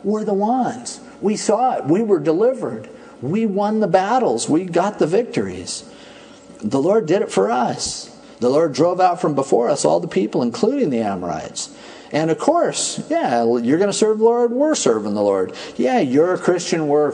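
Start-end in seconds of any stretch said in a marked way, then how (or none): 0.0-11.7 mock boastful. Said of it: "they're going".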